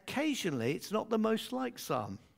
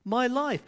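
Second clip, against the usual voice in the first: my raised and pressed on; stress on my; 6 semitones higher than usual. Shown as a demonstration. Preacher contrasting afterlife with my life, stressing my. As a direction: hit my in my life. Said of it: "not my afterlife".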